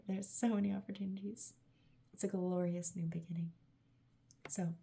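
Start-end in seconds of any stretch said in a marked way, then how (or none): 0.1-1.5 breathy whisper of "There are so many opportunities."; hushed whispered repeat. Acted. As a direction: whisper it like a secret message. Same words repeated in a whisper.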